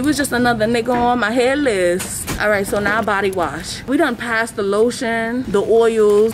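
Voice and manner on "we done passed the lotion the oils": breathless from walking; out of breath. Real, not acted. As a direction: talk out of breath while walking. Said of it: "If I sound out of breath".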